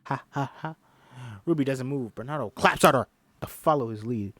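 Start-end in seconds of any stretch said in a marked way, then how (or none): 0.1-0.8 dog panting. Acted. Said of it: "Panting like a little dog".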